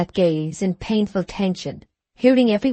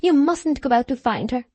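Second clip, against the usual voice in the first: passionately excited; 6 semitones higher than usual. A narrator's reading. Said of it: "passionately excited".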